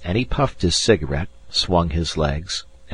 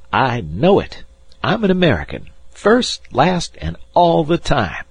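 boastful; 10 semitones higher, 3 dB louder than usual. A narrator's reading. Boastful boy proclaims patriotism.

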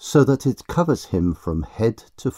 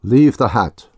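muffled, louder command; 2 semitones higher, 8 dB louder than usual. Acted. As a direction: speak as if through cloth. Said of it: "in a muffled voice".

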